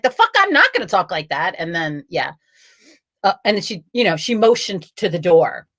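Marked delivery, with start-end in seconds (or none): 0.0-1.5 indignant retort. Retold or imitated. Upset patient answering staff who scolded her, indignant. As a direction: throw their words back, pitch climbing. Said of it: "I was like".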